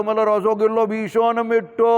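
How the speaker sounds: mock Bengali. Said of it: "બંગાળમાં જાઓ તો".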